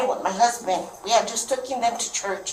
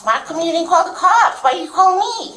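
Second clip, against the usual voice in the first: retold exasperated yell; 8 semitones higher, 6 dB louder than usual. Mother yelling at her son to call the cops, half laughing. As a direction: shout it half laughing in disbelief.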